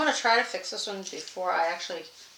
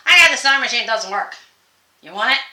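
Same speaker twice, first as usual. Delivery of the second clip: seller offering machine; 3 semitones higher, 11 dB louder, faster than usual. Retold or imitated. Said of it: "I hear someone go".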